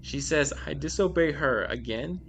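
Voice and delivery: measured read-aloud of a creepy tale; storyteller's deliberate delivery; scary story narration. A narrator's reading. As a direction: read it out like a short horror story. Reads scary stories aloud.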